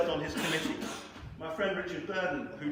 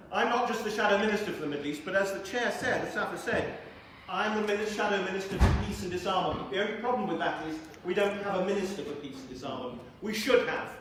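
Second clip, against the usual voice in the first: emphatic platform oratory, lifted in pitch; rallying political speech; 4 semitones higher, 3 dB louder than usual. Real, not acted. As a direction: build to a louder, higher pledge for applause.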